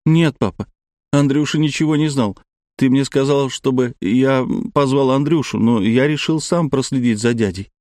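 a little son telling his father, upset; small boy voice. Acted. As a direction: play a tearful small child.

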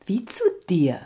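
soft whispered echo, no voice. Acted. The young woman echoes Odysseus in a whisper. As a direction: breathe the words back at him. She echoes him intimately.

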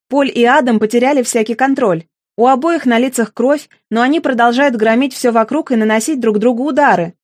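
ordinary delivery, nothing marked

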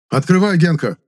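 loud call through the door. A narrator's reading. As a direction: shout to open up. Banging on door, calling out.

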